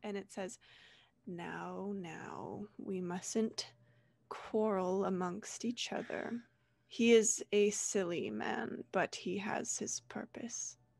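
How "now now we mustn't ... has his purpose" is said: frosty, cold, icy voice. Game master voicing a voice in a player's head, icy voice. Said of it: "that same icy voice".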